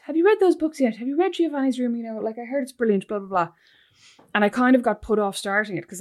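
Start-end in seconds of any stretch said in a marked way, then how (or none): 0.1-3.5 imitating mom nagging. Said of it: "she goes".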